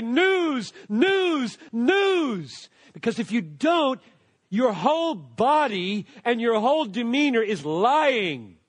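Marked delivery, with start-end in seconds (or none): 0.0-2.7 heralding. Shown as a demonstration. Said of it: "a calling to say".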